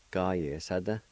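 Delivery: "Ga, ye, sa, da" nearly run together; joined pronunciation. Shown as a demonstration. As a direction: flow "Ga, ye, sa" into "da". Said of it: "It's pronounced like this".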